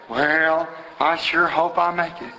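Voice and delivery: imitating a sad, doubtful churchgoer; mock a half-hearted hope, drawn out; mildly glum imitation; negative, doubtful. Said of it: "negative, so, it's so sad".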